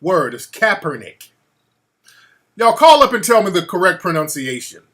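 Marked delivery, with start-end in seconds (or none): 0.3-1.3 Kaepernick stressed on CAP; corrected emphasis. Shown as a demonstration. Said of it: "I put the emphasis on the wrong".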